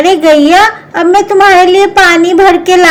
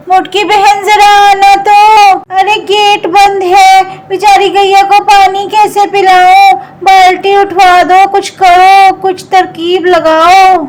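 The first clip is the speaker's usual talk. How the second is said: calling out; 4 semitones higher than usual. Acted. Chutki calls sister for help.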